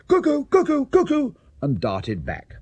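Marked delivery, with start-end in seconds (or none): 0.1-1.3 high, loud cuckoo call from the platform. A narrator's reading. Clock cuckoo calling out the hour, loud and high. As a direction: sing out the hour like a clock bird.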